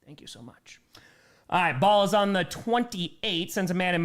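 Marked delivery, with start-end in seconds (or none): 0.1-0.8 deadpan quiet thanks. Retold or imitated. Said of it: "And I was like".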